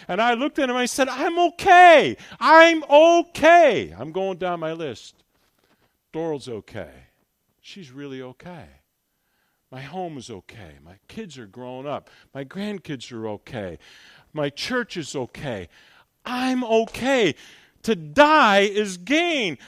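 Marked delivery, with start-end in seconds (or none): 1.1-3.9 high, loud, slow insistence; excited reassurance. Retold or imitated. Reassuring the medic, elated. 6.1-15.7 lower, softer calm reckoning; quiet inner list. Retold or imitated. Going down his list.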